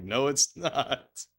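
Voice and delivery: mock angry. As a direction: imitate an exasperated arguer, dragging it out. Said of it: "people get more and more fucking mad".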